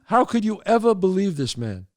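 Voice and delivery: disbelieving question to the wife; incredulous. Acted. Telling the wife, amazed she believed him. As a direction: ask her, stunned she fell for it.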